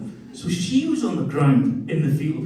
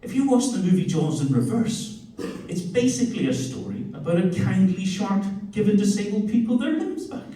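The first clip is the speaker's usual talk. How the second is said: voicing his son; 4 semitones higher than usual. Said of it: "So my kid's".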